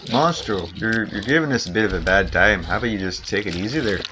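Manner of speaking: lilting put-on Canadian accent; stereotypical Canadian. Player politely telling Monstro off, mock Canadian accent. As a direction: mildly scold like a polite Canadian. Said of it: "I should just go stereotypical Canadian".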